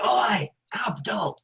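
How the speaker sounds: mock heckler's shout; shouted call. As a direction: call out to the stage like a rowdy biker. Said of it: "this guy stood up and shouted".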